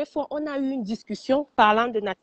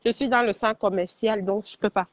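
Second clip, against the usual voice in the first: muffled by a mask; speaking through a mask in a mall; through a face mask. Real, not acted. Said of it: "je parle avec le masque". (voix derrière un masque)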